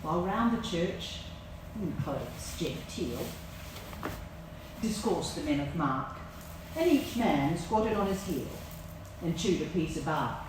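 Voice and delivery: slow, lilting ballad reading; poem recital. Acted. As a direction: savour each line of verse.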